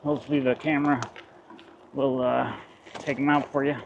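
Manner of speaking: talking while riding over rough ground; on a bumpy road. Real, not acted. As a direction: voice jolted by bumps. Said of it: "please excuse the bumps".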